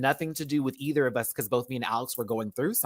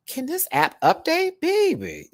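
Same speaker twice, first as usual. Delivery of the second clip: high squealed plea; 3 dB louder, slower than usual. Real, not acted. Squealing at the app.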